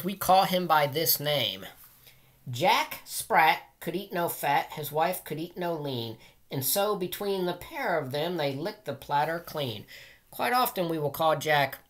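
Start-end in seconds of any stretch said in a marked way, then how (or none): 2.5-9.9 put-on sing-song rhyme read to children; nursery rhyme reading. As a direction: read it like a bedtime rhyme for kids. Reads nursery rhyme aloud.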